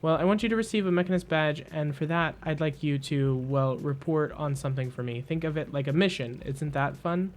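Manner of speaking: lightly voiced quick, eager explainer; a hint of a jumpy Mechanist giving a quest; twitchy Mechanist. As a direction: hurry through the mission pitch. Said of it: "speedy twitchiness".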